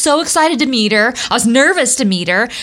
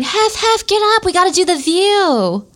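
calling to wake him; 8 semitones higher than usual. Retold or imitated. Waking Hef in the skit.

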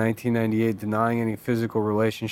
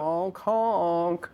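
silly clown; 5 semitones higher than usual. Pretend. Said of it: "here comes Clown Bill".

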